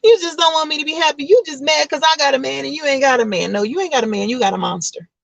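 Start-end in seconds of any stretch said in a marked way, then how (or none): 0.0-3.5 high, fast accusing friend; quick high defensive retort; indignant girlfriend. Retold or imitated. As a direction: snap back defensively. Woman accusing her friend.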